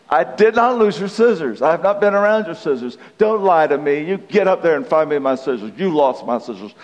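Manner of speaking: hammed-up couple squabbling; acted marital quarrel. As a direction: argue back and forth, mildly heated. Acted quarrel over lost scissors.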